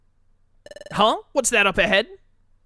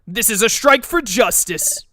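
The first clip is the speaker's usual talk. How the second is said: battle cry; 9 semitones higher, much slower than usual. Acted. Voices Palkia attacking Darkrai.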